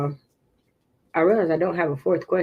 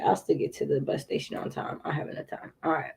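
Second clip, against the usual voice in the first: whispering to herself; 4 semitones lower, 8 dB quieter, faster than usual. Real, not acted. Whispering to herself over timing.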